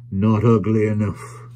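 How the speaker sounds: slow, dismissive verdict; lightly voiced scornful trader. Tackleton rejecting the stranger as a toy, slow scorn. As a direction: draw out the disdain.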